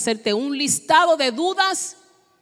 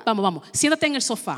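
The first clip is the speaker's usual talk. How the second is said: soft voice of a therapist; soothing therapist; 2 semitones lower, 5 dB quieter than usual. Acted. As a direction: gently usher a patient in. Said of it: "me convierto en un terapista". (terapista suave y atento)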